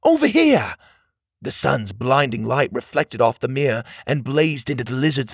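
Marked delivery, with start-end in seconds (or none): 0.0-0.8 high, loud calling out; high-pitched yell across a clearing; distracting shout. A narrator's reading. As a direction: call the enemy towards you. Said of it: "he shouted to them".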